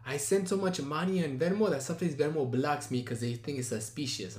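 mock Armenian accent for the bragging date; imitated Armenian accent. Date explaining his Venmo trouble, mock Armenian accent. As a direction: quote him in a put-on Armenian accent. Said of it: "the accent goes from Armenian to fucking Spanish".

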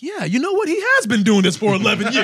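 high, excited crowd voice with a laugh; rally behind him as the cheering fans; fired-up crowd. Retold or imitated. Fans rising to cheer him, voiced high and excited. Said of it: "they were like".

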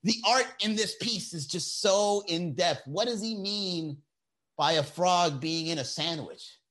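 slow, high, airy gallery-critic voice; pretentious art critic. Pretend. Mock critic pondering a frog sandwich, slow and lofty. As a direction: hold your chin up and savour every word like a snob critic.

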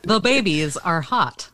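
slow, lightly done star impression; Christopher Walken. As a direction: space the words out oddly. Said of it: "Christopher Walken has a very similar way".

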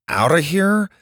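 put-on high-pitched, incredulous boy; scoffing. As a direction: scoff at the very idea. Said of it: "Max scoffed".

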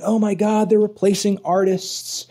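mock panic. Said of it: "people have been freaking out about this, saying".

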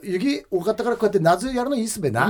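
Akita dialect. Pretend. Classmate discussing the summer ceremony, Akita dialect. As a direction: chat in role in Akita dialect. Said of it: "ちょっと秋田弁で話してみたい".

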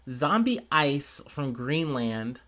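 slow, drawn-out headline read; odd drawn-out reading. Real, not acted. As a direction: stretch the headline out slowly. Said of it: "I don't know why I said it like that".

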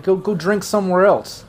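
annoyed guard. Acted. Guard to intruders at his trailer, mildly annoyed. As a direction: shoo them off, a touch irritated. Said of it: "He's like".

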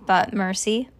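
ordinary delivery

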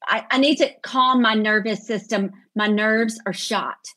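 lightly put-on Southern, slowing at the end; Southern accent. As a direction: stretch the last words with Southern drama. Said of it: "This is very Southern".

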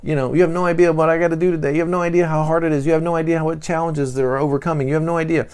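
hammed-up martyr complaining; mock complaining. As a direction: whine about how hard your day is. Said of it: "while complaining about it".

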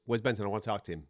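lightly imitated Jamaican twang. Boxer asking after someone at the offices, light Jamaican twang. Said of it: "in his little, uh, Jamaican twang accent".

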